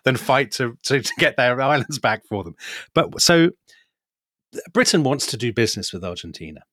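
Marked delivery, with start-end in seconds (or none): 0.0-2.5 laughing through a quote. Retold or imitated. Quoting adviser, laughing through it.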